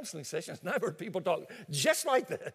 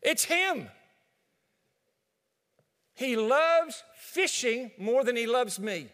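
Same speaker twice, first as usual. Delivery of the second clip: higher and louder, slow, pointing the finger; a complaining wife, higher and louder; indignant wife; 4 semitones higher, 6 dB louder, slower than usual. Acted. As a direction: play the fed-up wife accusing her husband. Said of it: "Mary would immediately volunteer".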